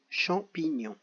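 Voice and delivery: champignon repeated softly at normal pace. Shown as a demonstration. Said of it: "Coche chaque syllabe dans laquelle tu entends". (champignon répété doucement)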